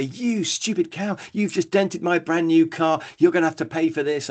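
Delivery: hammed-up road rage at the driver; angry shout. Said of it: "I'd be shouting at her".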